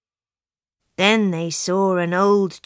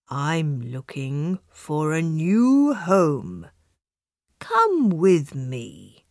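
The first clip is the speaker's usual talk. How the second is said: lower, slow, kind donkey voice; kindly; 5 semitones lower than usual. Acted. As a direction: gently invite the cat to come along. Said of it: "said the donkey kindly".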